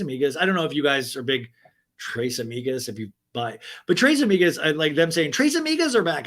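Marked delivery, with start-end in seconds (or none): 5.3-6.3 high mock cheer; forced excitement. Fans hyping a Transformers sequel, forcing excitement. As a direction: imitate someone working up fake enthusiasm. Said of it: "people trying to get excited".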